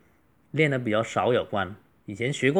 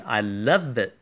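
chest voice; 3 semitones lower than usual. Shown as a demonstration. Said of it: "是胸腔音".

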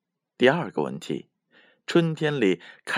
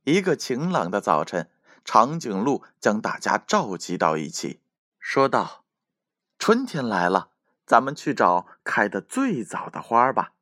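put-on lively storytelling for small children; story narration; 2 semitones higher than usual. A narrator's reading. Uncle telling children a spring tale, lively narration. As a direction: read it out clearly and brightly to little listeners.

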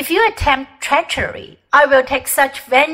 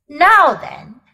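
hearty cabby voice; 2 semitones higher, 3 dB louder than usual. Acted. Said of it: "a good, firm, hearty voice".

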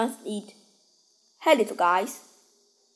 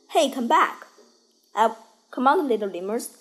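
calling out; 2 semitones higher than usual. Acted. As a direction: shout after them to come back. Calling after fleeing lemurs.

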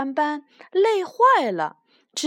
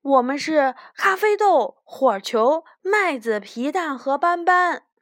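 higher-pitched eager little rabbit voices; chorus of little rabbits; 4 semitones higher, 3 dB louder than usual. Acted. Five little rabbits answering the newcomer together, higher-pitched chorus. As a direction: announce the names brightly, pitched up like small rabbits. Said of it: "五只小兔子齐声回答".

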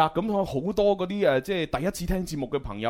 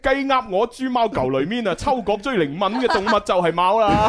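Foshan-flavoured Mandarin; 3 semitones higher, 3 dB louder than usual. Shown as a demonstration. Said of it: "仲有少少佛山話嘅味道".

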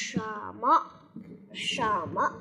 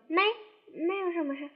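sheepish denial; 3 semitones higher, faster than usual. Acted. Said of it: "维尼心虚地说".

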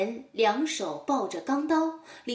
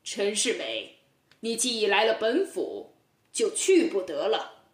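语调平静. Acted. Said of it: "他语调平静地说".

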